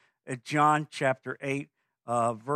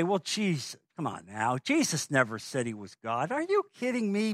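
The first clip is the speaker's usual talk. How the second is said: mock scoffer. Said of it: "because people will say".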